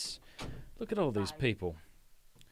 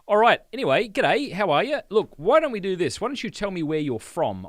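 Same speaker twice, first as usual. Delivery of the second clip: cheery greeting; 6 semitones higher, 8 dB louder than usual. Real, not acted. Greets live viewers loudly.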